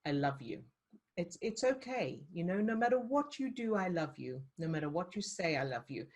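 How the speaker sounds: soft, calm I love you; tender reassurance. Shown as a demonstration. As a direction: soothe it gently, unconditionally. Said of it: "if you're just going".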